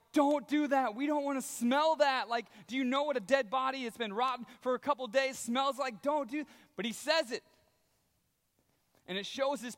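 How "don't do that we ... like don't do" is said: louder, higher, grossed-out objection; disgusted protest. Retold or imitated. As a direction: beg him not to open the stinking tomb. Crowd protesting opening the tomb.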